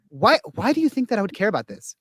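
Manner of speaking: a mock dismissive who-cares. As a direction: sneer at the question.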